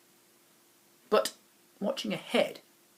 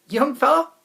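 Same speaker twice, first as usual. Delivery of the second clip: booming, higher voice of the wobble chap; loud old chap; 10 semitones higher, 10 dB louder than usual. Acted. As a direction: call out heartily like a jolly stranger. Chap answers boy.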